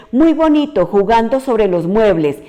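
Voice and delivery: put-on ironic "very nice" to a child climbing on furniture; sarcastic scolding. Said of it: "No puede percibir el regaño".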